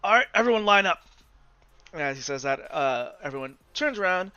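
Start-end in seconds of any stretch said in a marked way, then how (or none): 0.0-1.0 calling out. Acted. GM voices McCoy calling out.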